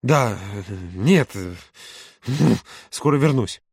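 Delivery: distracted, broken-up reply; tossed off. A narrator's reading. Володя answering mother while putting on shoes, offhand. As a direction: throw the answer back in passing. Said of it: "бросил тот".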